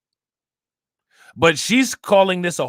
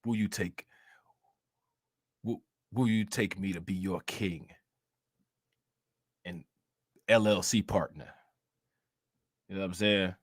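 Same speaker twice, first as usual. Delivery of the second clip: Umar Johnson wedding skit; 8 semitones lower, 7 dB quieter than usual. Acted. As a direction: play a deep, hushed suitor proposing. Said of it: "get the Umar Johnson and Tiffany Hayard wedding skit".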